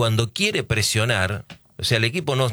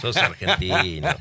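teasing through a laugh, a bit slower; 5 semitones higher, slower than usual. Real, not acted. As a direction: laugh while you rib your friend. Teasing Antonio about his nationality. (riéndose entre dientes al burlarse)

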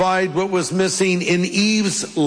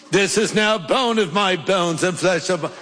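put-on English accent. Preacher imagining Adam reciting eloquently, in an English accent. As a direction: attempt at a British accent. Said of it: "said it with an English accent".

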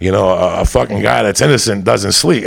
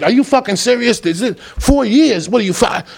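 shocked disbelief; 9 semitones higher than usual. Retold or imitated. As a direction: ask it stunned.

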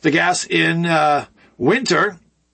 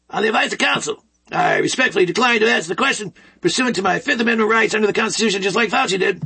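mild Fauci send-up of the repeated refusal; 3 semitones higher, faster than usual. Retold or imitated. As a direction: mimic Fauci reciting the refusal, slightly raised and quick. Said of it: "I'm doing it in a Fauci voice even".

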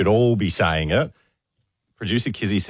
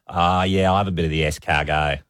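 low, casual order with a French "escargot"; overdone French accent; 4 semitones lower than usual. Acted. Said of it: "putting a little bit of the accent into that word".

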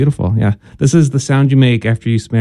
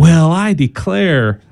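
put-on light southern accent; 4 semitones higher, much slower than usual. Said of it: "Why is your voice getting southern sounding".

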